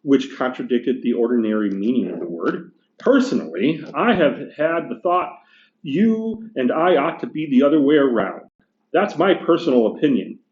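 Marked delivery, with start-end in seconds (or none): 3.0-10.4 gruff big ghost. Acted. Teacher reading the ghost complaining to the bright spirit, indignant. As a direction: bluster like an aggrieved ghost.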